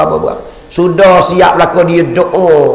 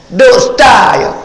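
calling out; 6 semitones higher, slower than usual. Acted. Preacher calling out.

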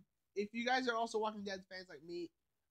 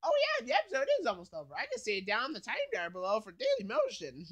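higher, fast, giddy mock Pinkie Pie; bubbly pony impression, higher and faster; 3 semitones higher, 5 dB louder, faster than usual. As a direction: rattle it off high and quick like a hyper pony. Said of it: "P P like".

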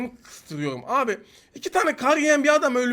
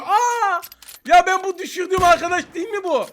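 surprised; 9 semitones higher, 5 dB louder than usual. Real, not acted. Spots the enemy he downed.

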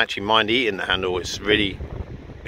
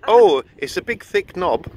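laughing, higher and louder; 10 semitones higher, 6 dB louder, slower than usual. Real, not acted. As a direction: giggle through the words. Giggling over innuendo.

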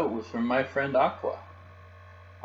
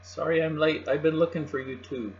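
higher, raised voice; lightly called-out apology; calling up; 6 semitones higher than usual. A narrator's reading. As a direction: call up to friends from below. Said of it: "Aqua called up from the ocean".

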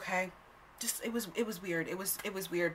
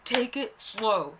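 loud, high, slow laughing disbelief; disbelieving laugh-cry; 5 semitones higher, 10 dB louder, much slower than usual. Real, not acted. Retelling the guy's advice, laughing in loud disbelief.

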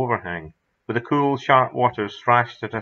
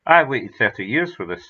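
rueful smile; 4 dB louder than usual. Acted. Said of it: "said Campbell with a rueful smile".

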